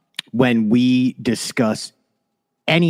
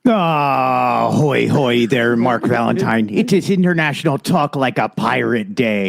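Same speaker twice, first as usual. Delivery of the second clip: pirate voice. Pretend. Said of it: "I don't know how long I can do this ... get the voice out of my head".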